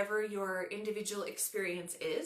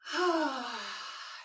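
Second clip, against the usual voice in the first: long audible open-mouthed exhale; demonstrated releasing sigh; 4 semitones higher, 3 dB louder than usual. Shown as a demonstration. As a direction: let out a relaxing sigh, falling away. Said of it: "do a couple of sighs out of your mouth".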